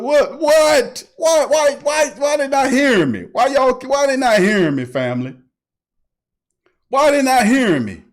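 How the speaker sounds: why won't anyone listen; exasperated cries to the audience. Real, not acted. Exasperated he is not heard.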